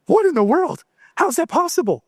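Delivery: high-pitched astonished questions; acted amazement. Father reliving first look through night vision goggles, acted amazement. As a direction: act out being astounded, pitch jumping up.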